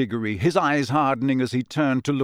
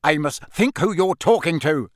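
very angry; 4 semitones higher, 5 dB louder than usual. Acted. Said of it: "said Mister Weasley very angrily".

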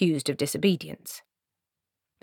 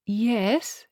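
tentative; 5 semitones higher than usual. Acted. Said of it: "he ventured".

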